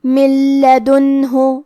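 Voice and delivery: من لدنہ with the نون merged straight into a doubled ل, no nasal hum; slow chanted من لدنہ, no ghunna; idgham without ghunna. Shown as a demonstration. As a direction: join من into لدنہ as one doubled ل. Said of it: "بغیر غنہ سے لیکن تشدید کے ساتھ".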